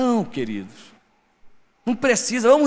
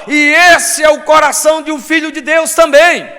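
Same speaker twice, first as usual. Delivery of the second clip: full-force preaching; 2 semitones higher, 7 dB louder than usual. Real, not acted. Preacher proclaiming God's forgiveness to the congregation, loud and fervent. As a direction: proclaim it with rising fervour.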